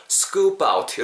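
"scoop out" joined as skoo-pout; linked sounds. Shown as a demonstration. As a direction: glue the p of scoop onto "out". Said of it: "이렇게 붙는 게 되겠죠". ("scoop out"을 '스꾸빠웃'으로 연음)

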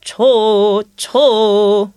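좋 with the first of three quick notes punched; accent on first note. Shown as a demonstration. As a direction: hit the first note of 좋 hard. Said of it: "put the accent on the just first note".

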